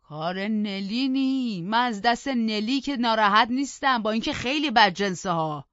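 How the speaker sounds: put-on old Joseph loudly complains to the master; grumbling old servant. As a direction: whine and rant like an aggrieved old servant. Narrator voices old Joseph again.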